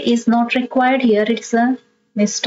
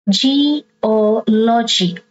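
Geology very slowly, syllable by syllable, stress on OL; third-last syllable stressed; much slower than usual. Shown as a demonstration. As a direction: sound out Ge-O-logy with drawn-out syllables. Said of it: "you stress the third syllable from the".

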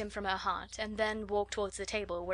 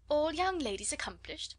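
high-pitched incredulous echo; astonished, questioning, pitch raised; 7 semitones higher than usual. A narrator's reading. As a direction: query it back in disbelief. Sister echoes brother in disbelief.

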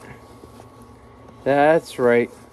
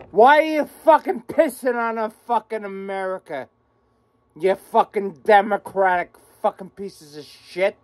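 furious rant; 2 semitones higher than usual. Real, not acted. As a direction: lash out at them in real anger.

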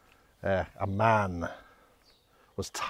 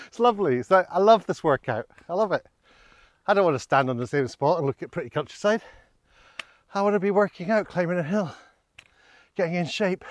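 sarcastic cheer, higher and louder while puffing uphill; forced positivity; 6 semitones higher, 4 dB louder than usual. Pretend. Walker jokes to viewers about the steep hill, sarcastically upbeat. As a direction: fake enthusiasm about a hard climb. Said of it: "I'm trying to be positive".

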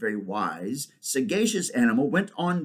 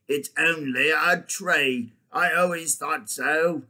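slow, higher warthog voice; warthog character; 4 semitones higher, 4 dB louder, slower than usual. Acted. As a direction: drag it out as an opinionated warthog. Warthog figure speaks in story.

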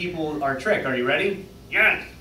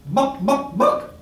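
clucking "book" that climbs much higher at the end; chicken imitation; 6 semitones higher, much slower than usual. Chicken at the library desk, clucking higher and higher. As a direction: cluck it, jumping high on the last "book!". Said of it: "and he says".

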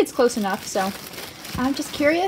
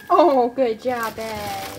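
praise; 2 semitones lower, 4 dB louder, much slower than usual. Real, not acted. Praising rat.

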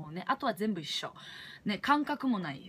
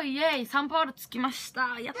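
excited cheer; 4 semitones higher than usual. Real, not acted. Landing in São Paulo after a long flight, shouting with joy. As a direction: cheer like you finally landed.

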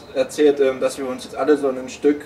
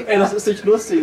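laughing protest; 6 semitones higher than usual. Real, not acted.

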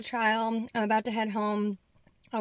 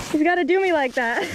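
laughing; 6 semitones higher, 9 dB louder than usual. Real, not acted. Laughing at dog on field.

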